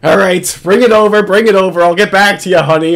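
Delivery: hammed-up startled cop cutting a call short; imitating Hansen on the phone. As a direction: caught off guard, swearing then brushing off his girlfriend. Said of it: "and then he's like".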